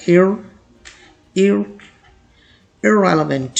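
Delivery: ir-, ir-, then irrelevant built up; broken down. Shown as a demonstration. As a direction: build irrelevant from its first syllable. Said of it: "इनको बिल्कुल ही मध्यम पढ़ा जाता है".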